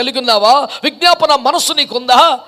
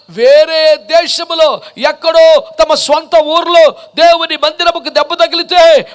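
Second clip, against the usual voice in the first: raised, ringing sermon delivery; impassioned preaching; 3 semitones higher, 3 dB louder than usual. Real, not acted. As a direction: preach it with mounting urgency.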